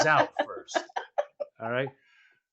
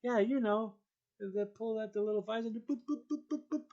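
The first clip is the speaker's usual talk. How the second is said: imitating a clueless woman; 2 semitones higher, 11 dB quieter than usual. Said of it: "imitating the woman".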